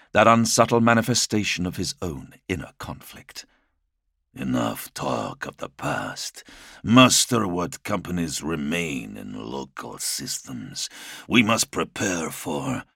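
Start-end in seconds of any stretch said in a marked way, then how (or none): 4.3-12.8 low weary lord. Acted. Primarch commands wearily.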